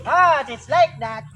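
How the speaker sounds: slow praise. Real, not acted. Praising the pet.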